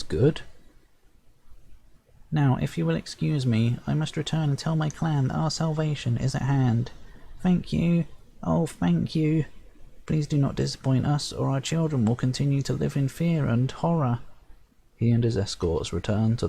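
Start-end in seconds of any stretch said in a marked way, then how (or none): 2.3-14.2 cling to the hero with tiny gratitude; grateful sprite chief. Acted. Sprite chief thanking the hero before leaving, high and pleading.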